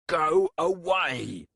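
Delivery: very loud, slow, high roar. A narrator's reading. Warlock roaring at someone pounding the door, very loud slow roar. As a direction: bellow at the door to drive them off. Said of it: "Resh roared".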